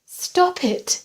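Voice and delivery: high, loud, desperate plea; begging. A narrator's reading. Patient begging her stalker to stop, desperate. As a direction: beg him in panic. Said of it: "she begged him".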